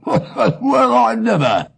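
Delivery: surprised exclamation. Acted. Surprised exclamation after the laugh.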